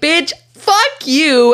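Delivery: angry retort. Retold or imitated. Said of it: "And I was like".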